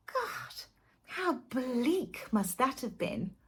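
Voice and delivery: breathy, bored disdain; disdainful sigh. Acted. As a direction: drawl it with contempt. Disdainful aside.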